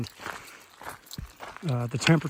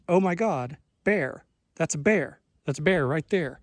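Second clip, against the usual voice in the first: retold panic; 3 semitones higher than usual. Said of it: "my brain went".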